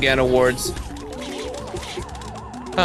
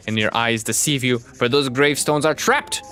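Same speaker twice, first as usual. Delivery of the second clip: slow theatrical villain menace. Acted. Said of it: "my evil villain speech".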